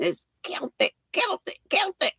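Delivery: "Celtic" repeated kel-tic, rising playfully; mock-correcting "Celtic" as kel-tic; insisting on Celtic. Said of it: "and I'm going".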